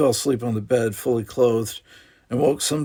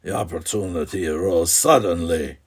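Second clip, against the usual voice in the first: cold; 4 semitones lower than usual. Acted. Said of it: "his voice cold".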